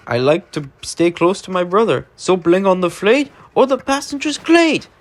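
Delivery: a hint of a Scottish twin engine. Twin engine speaking fondly of his brother, lightly voiced.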